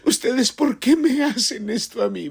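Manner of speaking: mock tearful kid blaming mom and dad; whiny crying child. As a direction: whimper it like a scraped kid complaining to his parents. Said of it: "se sienta en el sofá llorando y dice".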